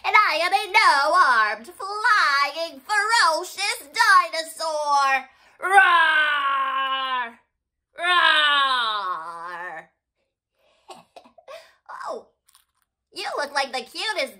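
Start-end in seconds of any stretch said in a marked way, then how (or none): 0.0-5.3 proud, louder boast of a fierce dino; ferocious dinosaur. Pretend. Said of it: "My name is Paintysaurus". 5.6-9.9 long shouted mock roar; big dinosaur roar. Pretend dinosaur roars.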